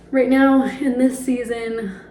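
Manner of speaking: breathless and winded; out of breath. Real, not acted. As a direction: speak while short of breath. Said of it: "sorry, I'm out of breath".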